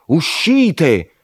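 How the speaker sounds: high, loud barked order; shouted command. A narrator's reading. Ferryman ordering the travellers off the boat, loud shout. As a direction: yell it across the water. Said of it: "ci gridò".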